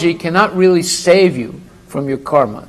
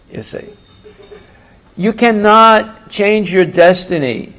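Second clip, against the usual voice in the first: ordinary delivery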